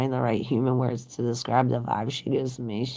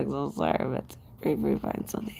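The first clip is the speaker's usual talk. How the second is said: soft whisper; 6 dB quieter, faster than usual. Real, not acted. Consoling jobless viewer softly.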